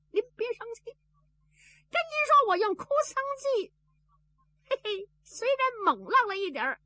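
high wheedling voice with a sheepish chuckle; Zhao Bi pleading. A narrator's reading. Zhao Bi kneels and talks his way out, high wheedling voice.

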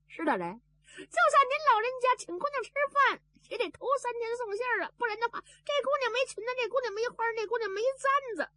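high wheedling voice with a sheepish chuckle; Zhao Bi pleading. A narrator's reading. Zhao Bi kneels and talks his way out, high wheedling voice.

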